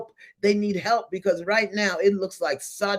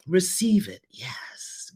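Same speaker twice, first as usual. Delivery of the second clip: whisper; slower than usual. Real, not acted. Whispered blessing during breathing exercise.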